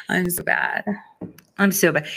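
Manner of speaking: laughing at her own naughtiness. Real, not acted. Giddy host laughing at herself for gloating.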